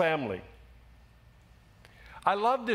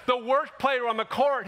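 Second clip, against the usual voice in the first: emphatic shout; 4 semitones higher than usual. Real, not acted. Preacher emphatic outburst.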